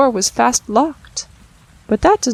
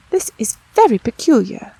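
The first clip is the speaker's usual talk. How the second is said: a lightly voiced puzzled old tailor; 2 semitones higher, 5 dB louder than usual. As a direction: wonder aloud as the old tailor. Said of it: "said the Tailor of Gloucester".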